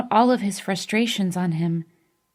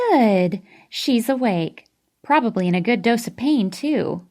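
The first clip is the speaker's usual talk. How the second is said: peppy nurse; 2 semitones higher than usual. Acted. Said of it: "her loud, peppy voice".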